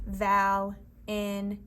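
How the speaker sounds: slow, level, chopped into syllables; three separate robot beats. Retold or imitated. Teacher leading the class in saying Valentine, robotic. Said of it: "say this word like a robot".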